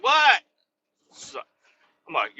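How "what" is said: a high, lightly mocked what; imitating coworker. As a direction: play her, puzzled, in a high voice.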